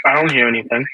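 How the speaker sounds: talking while crunching chips. Real, not acted. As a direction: speak between bites of crisps. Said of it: "Is it me on a chewing a chip".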